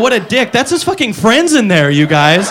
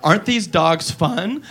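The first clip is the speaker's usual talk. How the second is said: put-on dubbed girl; 4 semitones lower, 8 dB quieter, much slower than usual. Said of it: "now she goes".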